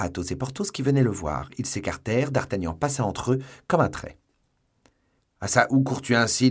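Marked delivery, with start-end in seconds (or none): 5.4-6.5 louder, higher call after him; shouting. Acted. Two musketeers call to d'Artagnan rushing past, loud call. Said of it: "lui crièrent".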